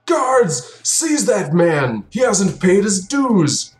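high, slow shouted command; outraged temple keeper calling the guards; npc shouting orders. Acted. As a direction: bellow for the guards to seize him. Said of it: "and he goes".

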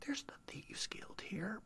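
slow, confidential whisper. Acted. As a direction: whisper it slowly like a risky secret. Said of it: "he kinda lowers his voice".

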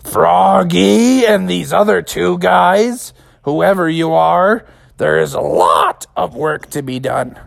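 slow booming mother; slow stern giant mom; giant mother frog. Acted. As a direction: lay down the law. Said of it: "she was like".

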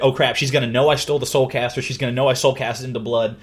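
fast, panicky rush; mock panic. Retelling her fear as Jasna knocks, mock panic. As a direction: rattle it out as if about to be caught.

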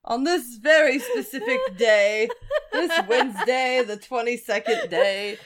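town crier. Pretend. Mock decree delivered.

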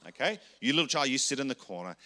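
a hint of a stern parent telling a child off; lightly voiced firm parent sending a child to the corner. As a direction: scold the little one into the corner. Scolding inner child to sit.

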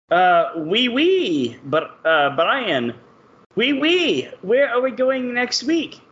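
drawn-out, lilting mock French accent. Host asks where the show goes next week, mock French accent. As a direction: put on a hammy French accent. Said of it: "I think you're doing French".

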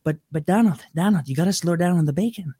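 a hint of Trump doing a comedy bit; casual mock Trump riff on bacon; lightly voiced Trump joke. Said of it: "you can hear him doing that".

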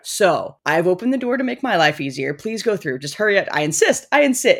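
high, irritated insisting; high-pitched annoyed voice. Retold or imitated. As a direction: insist through clenched politeness. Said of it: "this high-pitched, like, annoyed voice".

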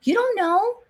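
high-pitched sermon cry; fired-up preaching. Real, not acted. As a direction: preach it with fervor.

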